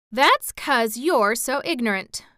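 put-on mildly huffy girl; a touch of offended retort; a little offended. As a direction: answer back with hurt pride. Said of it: "a little offended".

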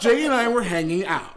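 put-on laughing redo in a Mexican accent; Mexican accent restored. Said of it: "all of your Mexican accent has dropped away".

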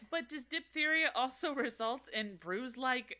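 put-on light Australian accent. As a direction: say it like an Aussie. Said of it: "Why are you from Australia now?".

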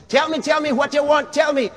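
a hint of a fawning servant; mock eager errand boy. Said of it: "God is just the errand boy".

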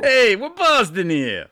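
loud, high, drawn-out mock Boston holler; bad Boston accent. Podcaster botching East Coast talk, bad Boston accent. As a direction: call it out in a hammed-up Boston accent. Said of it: "how my East Coast accents end up".

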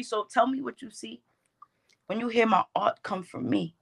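rhythmic spoken-word performance; cadenced poetry voice with deliberate pauses; poem recitation. Shown as a demonstration. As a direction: deliver it as heartfelt verse, line by line. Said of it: "that poem that you're referencing".

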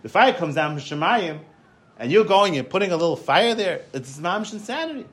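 mildly indignant, pitch climbing; retold anger. Angry visitor arguing about fire from heaven, indignant. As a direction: protest as if it's absurd, lightly acted. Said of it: "the guy was angry".

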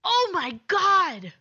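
slow, high, loud oh my God; stunned disbelief. Real, not acted. Cohost hears her partner's three rating, gasps in disbelief. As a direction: drag it out in shocked disbelief.

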